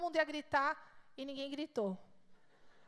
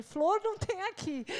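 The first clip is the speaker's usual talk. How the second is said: slow, higher put-on husband voice; imitating husband; 4 semitones higher, 4 dB louder than usual. Wife mocking husband's slow, dreamy flower talk. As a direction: mimic him slowly pointing out nothing.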